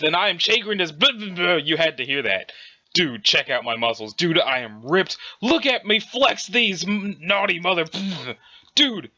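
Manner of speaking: giddy show-off voice with laughs breaking through; boastful muscle bro. Acted. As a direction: brag about your muscles, cracking up. Reader voices boastful muscle character.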